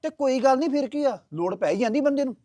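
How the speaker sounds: defensive. Acted. Son defends borrowing to mother.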